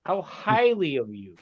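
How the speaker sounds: drawn-out mock English phrase; mock English accent. Teasing co-host quotes an acquaintance's phrase, mock English accent. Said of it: "he has an England accent".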